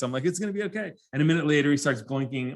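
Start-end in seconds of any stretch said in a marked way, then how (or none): 0.2-0.9 reassuring. Retold or imitated. Father reassuring his hurting son.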